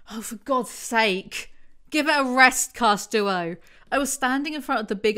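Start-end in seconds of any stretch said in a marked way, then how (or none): 0.1-3.5 loud fed-up groan at the book; louder, throwing up her hands; exasperated. Real, not acted. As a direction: give it a rest, fed up.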